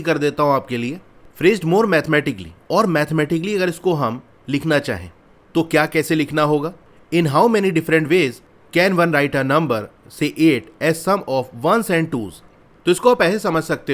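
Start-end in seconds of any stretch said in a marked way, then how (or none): 1.4-2.5 slow reading. Shown as a demonstration. Reads the problem text aloud. 7.1-12.4 reads each English word out very slowly; deliberate read-aloud of the problem. Shown as a demonstration.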